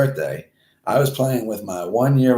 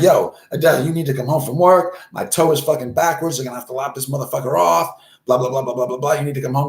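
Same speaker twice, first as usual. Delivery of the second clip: higher-pitched urgent phone rant; mock panicked plea; 6 semitones higher, 4 dB louder, faster than usual. Injured man phones his ex-wife at work, mildly frantic. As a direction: urgently demand help, voice pushed up.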